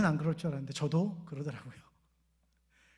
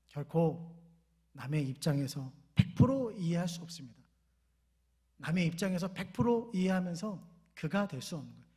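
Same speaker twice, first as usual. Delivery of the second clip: ordinary talk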